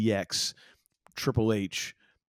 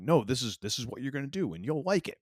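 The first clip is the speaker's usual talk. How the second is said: higher-pitched, pushy mock command; mock bossy decree; 5 semitones higher than usual. Imagined booker force-feeding people stuff, mock bossy. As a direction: lay down the law, half-joking. Imitating bossy creative forcing ideas.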